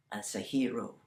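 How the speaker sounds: scornful hushed whisper. A narrator's reading. Storyteller whispers the verdict on Oi. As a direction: drop to a whisper.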